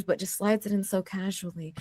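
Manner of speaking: hushed, breathy aside; whisper. Real, not acted. Player whispering praise to a fellow player. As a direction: drop to a secret whisper.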